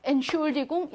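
"entschuldigung" stressed on schul, weak ent; same stem stress. Shown as a demonstration. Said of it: "이렇게 강세는 똑같이 간다".

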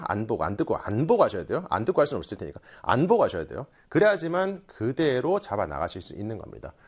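ordinary delivery

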